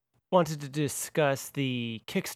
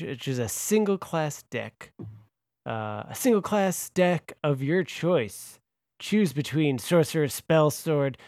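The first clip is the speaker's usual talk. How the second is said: lightly put-on announcer delivery. Host presenting the pledge tier on request, announcer voice. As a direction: announce it with deliberate emphasis. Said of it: "do it in a announcer voice".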